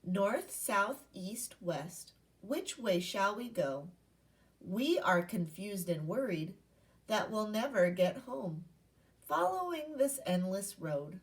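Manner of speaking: put-on expressive read-aloud voice for children; poem read aloud. Teacher reading a poem to her class, expressive read-aloud.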